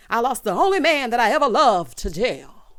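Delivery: loud, hammed-up outburst; melodramatic lament. Maurice mourning his man gone to jail, mock melodrama. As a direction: wail it theatrically, about to laugh. Acted lament, then bursts out laughing.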